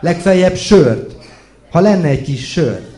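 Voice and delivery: tipsy laughing shout for beer; laughing tipsy call. A narrator's reading. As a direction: laugh it out, a bit drunk and loud. Tipsy Imre calls from ladder.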